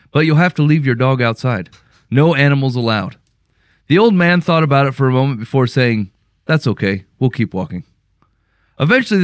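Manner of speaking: reading a story aloud, measured and even; story narration. A narrator's reading. Host reads a listener's story to co-hosts, story narration. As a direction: narrate it as an evenly paced parable.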